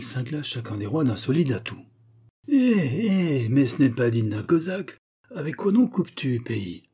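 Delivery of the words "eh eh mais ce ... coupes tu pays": high, loud, outraged protest; a player crying foul at the table; outraged Cossack, loud and high; indignant card player. Acted. Character protests at cards.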